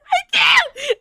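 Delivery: high squealing laugh-cry; laughing fit. Real, not acted. Laughing breakdown before reading.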